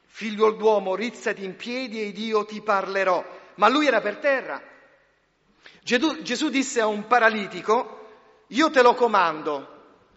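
loud, soaring preacher's voice; fiery pulpit proclamation; forceful preaching. Acted. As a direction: proclaim it to the whole hall.

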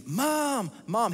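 high, drawn-out call for mom; hollering like the room is on fire; kid yelling. Retold or imitated. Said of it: "He yells and screams".

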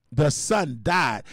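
very slow, weighty; slow solemn repeat. Shown as a demonstration. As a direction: say it again, heavier.

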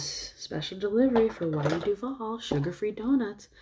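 Jennifer. Retold or imitated. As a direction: lightly imitate a woman presenting a treat. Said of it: "and she goes".

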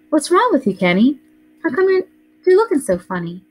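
put-on high, worried little girl voice; a small girl pleading with her brother; little sister Joey. A narrator's reading. Little sister asks her strange brother what's wrong, high and worried.

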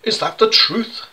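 high, astonished judge's exclamation; a judge, shocked, blurting out his question; judge exclaiming. Acted. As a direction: jump up high in disbelief. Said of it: "the judge exclaimed".

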